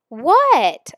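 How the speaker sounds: almost shout the question; near shout. Acted. Boy nearly shouts at his friend to make him answer. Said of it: "I nearly shouted".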